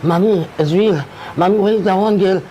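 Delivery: son's distressed voice. Retold or imitated. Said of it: "in this kind of way".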